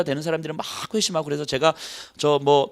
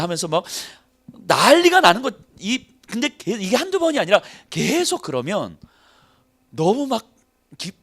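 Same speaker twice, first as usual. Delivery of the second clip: ordinary talk, nothing marked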